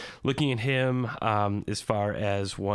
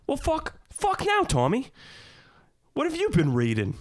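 high, louder attempt at a British accent; best British accent; 3 dB louder than usual. Doing Turkish's response to Tommy, put-on British accent. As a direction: quote it in an exaggerated, high-pitched British accent. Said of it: "use my best British accent".

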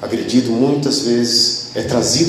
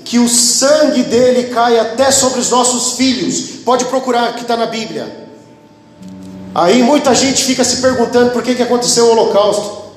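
raised, emphatic pulpit delivery; fervent preaching; 10 semitones higher, 3 dB louder than usual. Real, not acted. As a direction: declaim it to the congregation, pitch up. Preaches at full force.

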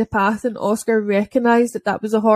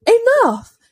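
much higher, louder mock shout; retold shout; 13 semitones higher, 5 dB louder than usual. Rider yelling at the dog to stop, high shout. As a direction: bark the command like the rider. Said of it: "the woman shouted".

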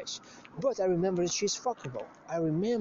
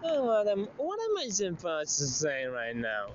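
mock shrug. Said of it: "she kinda shrugged, like".

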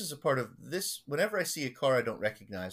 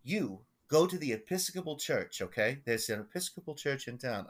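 lightly imitated old Long Island schemer; Gordon's Long Island accent; 3 semitones higher than usual. Elderly parishioner instructing his pastor on a scheme, Long Island accent. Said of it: "and this is how he talks".

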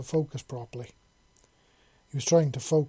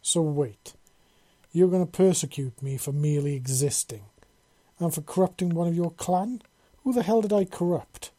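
indignation climbing to a loud, high demand; building angry yell; 4 semitones higher, 6 dB louder than usual. A narrator's reading. Prisoner outraged at the arbiter's charges, anger building. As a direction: start firm, grow louder and higher in outrage. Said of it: "Ryan yelled, his anger building".

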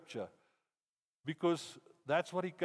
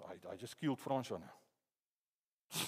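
stunned realisation; 7 semitones lower, 8 dB quieter, slower than usual. Retold or imitated. Realising he killed him.

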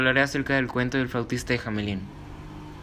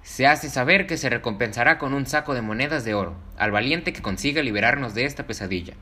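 proclamation shout; 3 semitones higher than usual. Acted. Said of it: "gritando para que todo el mundo le escuchara".

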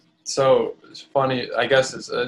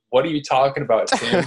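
incredulous, higher and louder; 4 semitones higher, 4 dB louder than usual. Retold or imitated. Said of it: "And I'm like".

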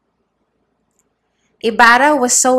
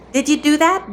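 demanding; 7 semitones higher than usual. A narrator's reading. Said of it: "demanded the youth in an indescribable tone".

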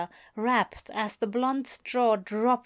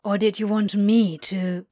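muffled between kisses; 5 dB louder than usual. A narrator's reading. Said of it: "muffled between kisses".

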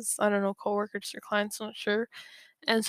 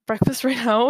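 amused disbelief, louder; surprised laugh; 7 dB louder than usual. Retold or imitated. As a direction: laugh through the question. Teacher surprised at late breakfast.

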